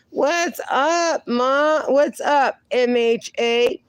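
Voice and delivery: light up as a friend arrives; excited greeting. Real, not acted.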